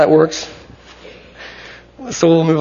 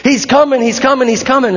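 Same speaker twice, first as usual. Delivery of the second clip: higher, acted-out excited crowd; crazed excitement; 5 semitones higher than usual. People waving palms as the king nears, excited. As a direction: play the crowd buzzing at an arrival. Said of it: "acting crazy".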